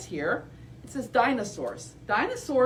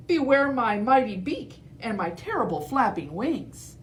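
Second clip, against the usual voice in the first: higher, lightly voiced bold hen; brave chicken; 4 semitones higher than usual. Edna warning T. rex, lightly voiced bold chicken. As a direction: puff up like a little hen.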